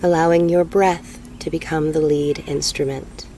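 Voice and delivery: slow meditation guide with long pauses; guided meditation. Real, not acted. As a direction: ease them into breathing, unhurried.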